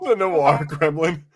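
slow, drawn-out noir narrator voice. Pretend. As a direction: draw out the words like an old film narrator. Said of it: "That's good shit".

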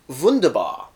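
German word. Acted. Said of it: "As the Germans would say".

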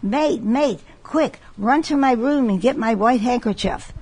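hammed-up urgent captain's call; mock excited captain. Captain on a ship calls his mate, mock excited. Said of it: "he got all excited and screaming".

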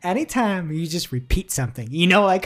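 normal talking voice

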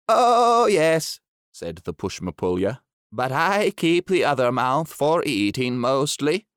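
lightly voiced shy beast; gentle creature agreeing. Pushmapulya answers duck.

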